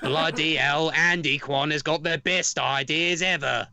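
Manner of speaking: a hint of an Australian accent, half-hearted; lightly put-on Australian accent as Rupert Murdoch; Australian accent attempt. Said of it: "That was my attempt at an Australian accent".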